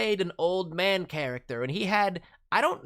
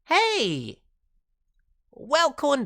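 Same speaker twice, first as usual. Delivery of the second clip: cheery call; 8 semitones higher, 6 dB louder, much slower than usual. Real, not acted. Greeting returning viewer.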